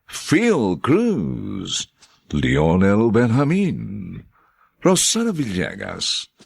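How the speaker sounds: formal announcer reading the cast list; radio credits reading. Acted. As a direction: read each name clearly. Narrator reads credits.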